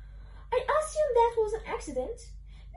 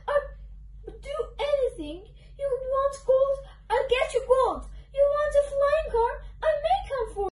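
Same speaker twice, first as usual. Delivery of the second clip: raised-pitch, eager bargaining; pleading bribery; 5 semitones higher than usual. Acted. Book character offering gold and flying cars, pleading.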